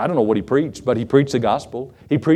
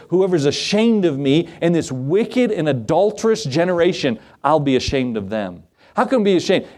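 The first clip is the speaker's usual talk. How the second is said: higher-pitched, emphatic sermon delivery; preaching; 5 semitones higher than usual. Real, not acted. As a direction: exhort the congregation with rising pitch. Preacher quotes scripture and exhorts.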